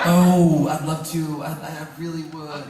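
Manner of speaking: lightly acted regretful turn-down, high-pitched; high, put-on reluctant decline; mock-apologetic excuse. Turning down a friend's movie invitation, mock-apologetic.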